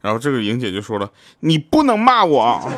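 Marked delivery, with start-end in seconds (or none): 1.4-2.7 slow, high, loud scolding wife; wife protesting. Retold or imitated. Ying warns her glaring husband, slow high protest. Couple quarrel, wife speaks.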